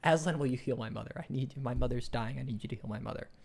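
mildly acted, run-on blurt; blurted plea. Boy begging the lion to heal his mother, blurted plea. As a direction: let the plea tumble out in one run. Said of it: "it all just sort of falls out of his mouth".

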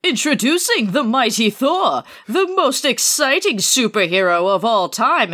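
grand, swooping comic-book announcer; big, melodramatic cover-blurb proclamation; hyped announcer read. Acted. Reading the comic cover aloud to co-host, grand announcer.

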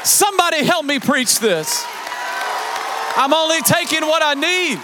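rising sermon cadence with shouted lines; full-force preaching. Acted. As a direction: whoop it out over the organ. Climactic preaching with music.

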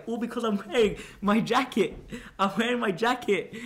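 hammed-up glee at doing a good deed; mocking his past self, building to a loud high boast; mock self-satisfied. Mocking his own smug past thoughts.

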